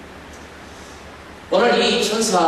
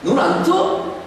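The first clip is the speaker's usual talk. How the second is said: mock scolding. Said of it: "이렇게 하신다면".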